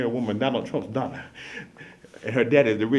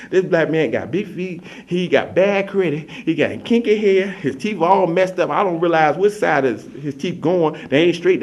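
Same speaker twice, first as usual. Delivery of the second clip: gushing daughter; 3 semitones higher, slower than usual. Acted. Daughter tells Daddy about her man, gushing. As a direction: slowly gush over his flaws, pitched up.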